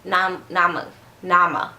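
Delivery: "nama", the squashed form of "now I'm"; "now I'm a" collapsed into "nama"; slurred words. Shown as a demonstration. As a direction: blurt "nama" as one made-up word. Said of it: "That's not a word".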